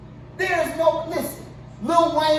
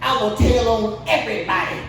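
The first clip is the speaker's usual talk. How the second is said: voicing Chris Rock; 5 semitones lower than usual. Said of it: "Chris Rock turned to the".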